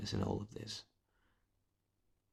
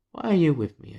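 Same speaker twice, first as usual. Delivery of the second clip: mock plaintive outburst; 7 semitones higher, 10 dB louder than usual. Mock pleading question to girlfriend.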